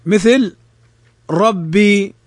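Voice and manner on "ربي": ربي with a full, heavy r. Shown as a demonstration. Teacher models ربي for students, heavy ra. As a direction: say ربي with the r thickened. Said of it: "الراء مفتوحة فنفخمها".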